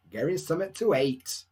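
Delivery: put-on broad Barnsley accent; broad Yorkshire. Off-duty teacher answering students in a broad Yorkshire accent. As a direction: answer like a proper Yorkshire bloke. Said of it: "I talk like a proper Yorkshire bloke".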